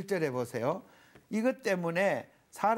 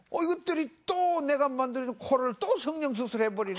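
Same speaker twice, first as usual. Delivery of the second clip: hammed-up exasperated Creator, higher and louder; exasperated God; 8 semitones higher, 4 dB louder than usual. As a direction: grumble comically at your wayward creations. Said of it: "하나님이".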